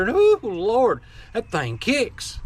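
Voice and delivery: mocking Yankee whine, jumping up on ooh Lord then dragging slowly; mock Yankee accent. Mocking tactical shooters who say ten millimeter kicks, in a put-on Yankee accent. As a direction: mimic a Northern gun owner's complaint in a Yankee accent. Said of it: "they say it with a Yankee accent".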